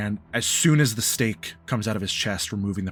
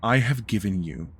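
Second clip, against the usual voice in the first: grave, halting reproach with weighty pauses; lightly voiced stern elder; disappointed patriarch. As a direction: let each item land separately, like a wronged father. GM speaks as Ulysses.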